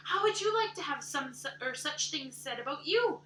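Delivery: loud, high, indignant shouting; furious outburst. Acted. Anne raging at Missus Rachel for insulting her looks. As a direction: hurl the insults back at her.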